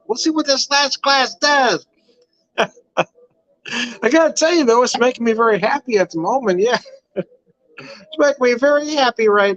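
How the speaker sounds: giggly. Real, not acted. Tipsy giggly remarks on wine.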